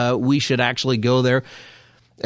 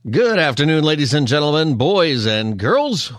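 grand entrance announcement; 4 semitones higher than usual. Real, not acted. Radio host opens the show.

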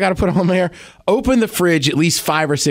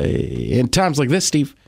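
celebrity impression; slower than usual. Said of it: "Do a celebrity impression".

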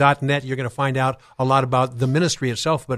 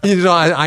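laughing; 4 semitones higher, 4 dB louder than usual. Real, not acted. Laughs at one-word answer.

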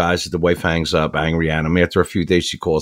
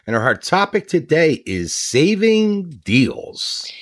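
whisper; 8 semitones higher, slower than usual. Acted. Host announces topic.

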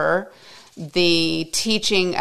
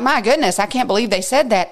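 mock indignation; 5 semitones higher, faster than usual. Mock indignant disciples reading.

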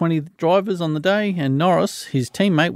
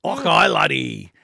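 slow, broad Scottish "Okay, laddie"; Scottish accent; slower than usual. Pretend. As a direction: drawl it like a Glasgow local. Scottish soccer chat, mock Scot.

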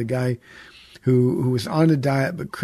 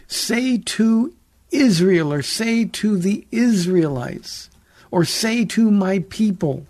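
slow, higher-pitched proclamation, word by word; slow, emphatic quote; 4 semitones higher, slower than usual. Acted. God instructing Moses whom to address, slowly and emphatically.

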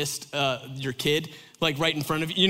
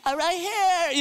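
put-on child's reply; 13 semitones higher, 4 dB louder, slower than usual. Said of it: "He was like".

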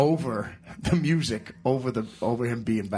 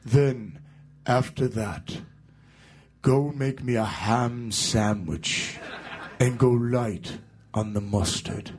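slow, drawn-out mock rock-star order, holding back a laugh; deadpan slow rock-star demand; rock-star impression; much slower than usual. A rock singer orders his new guitarist to fetch a sandwich, slow mock voice. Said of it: "And he goes".

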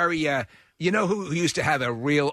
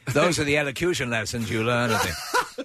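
laughing through the words. Real, not acted. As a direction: talk while laughing.

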